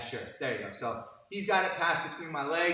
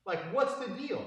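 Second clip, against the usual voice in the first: higher, mock-exasperated scolding of a student; retold exasperated rant; 5 semitones higher than usual. Coach scolding a black belt student, mock-exasperated. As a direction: pitch it up like a fed-up coach. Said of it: "And I was like".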